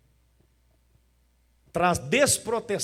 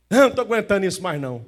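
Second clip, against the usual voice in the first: mock fed-up complaint; 2 semitones higher, 6 dB louder, much faster than usual. Mocking a fed-up believer.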